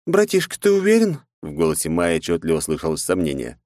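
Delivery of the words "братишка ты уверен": higher, lightly voiced helper; a gentle AI companion's doubt; Mai voice. Mai questioning her master.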